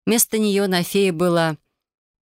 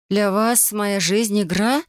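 indignant; 3 semitones higher, slower than usual. Acted. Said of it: "возмутилась я".

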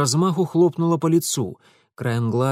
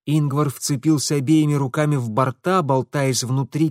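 ordinary delivery

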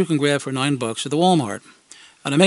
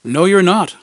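loud, higher flat denial; kids insisting; 5 semitones higher, 8 dB louder than usual. Retold or imitated. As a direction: shut him down like a know-it-all kid. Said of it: "they theorized".

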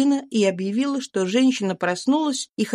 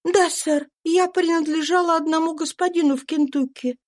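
higher, tense voice of a runaway mother; fugitive mother's voice; 10 semitones higher than usual. A narrator's reading. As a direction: voice the exhausted slave woman, pitched up. Eliza voiced. (беглая мать, голос выше, напряжённо)

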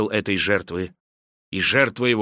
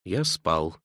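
much lower and softer, head bowed; meek admission; 8 semitones lower, 7 dB quieter than usual. Acted. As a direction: confess it humbly and quietly. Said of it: "кротко опустив голову".

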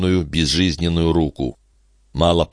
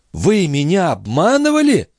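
high, outraged question; indignant accusation; 13 semitones higher than usual. Acted. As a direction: demand an answer, voice leaping up. Mother accuses doctor of lying. (возмущённый вопрос высоким голосом)

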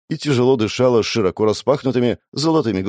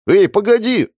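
much higher, louder shout; a boy jumping in to stop him; boy cutting in; 14 semitones higher, 6 dB louder than usual. A narrator's reading. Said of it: "вклинился мальчишка". (мальчишка громко перебивает)

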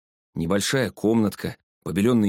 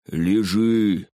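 clipped command; 3 dB louder than usual. A narrator's reading. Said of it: "отчеканила".

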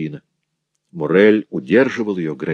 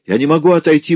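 exasperated jeweller; 10 semitones higher, 6 dB louder, faster than usual. A narrator's reading. Jeweller protests to wife.

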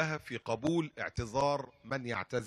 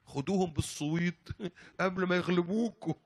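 laughing proverb; 4 semitones higher than usual. Retold or imitated. Driver quotes the proverb laughing.

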